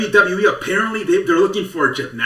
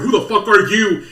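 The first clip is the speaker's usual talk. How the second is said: Conor McGregor impression; 6 semitones higher, 4 dB louder than usual. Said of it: "gave him the Conor McGregor".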